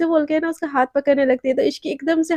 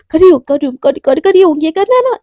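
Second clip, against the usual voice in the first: flustered; 5 dB louder than usual. Acted. Forced to exercise at gunpoint.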